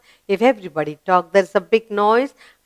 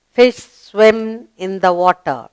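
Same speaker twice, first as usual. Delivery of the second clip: slow model reading; 2 semitones lower, slower than usual. Shown as a demonstration. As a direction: read it slowly and clearly.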